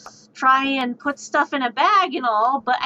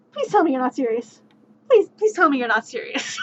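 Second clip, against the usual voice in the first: mock pleading sob. Begging teammate to stop.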